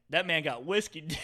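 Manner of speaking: mildly loud mock confiding; retold loud remark. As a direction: imitate a friend's too-loud aside. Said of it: "he said it really loud".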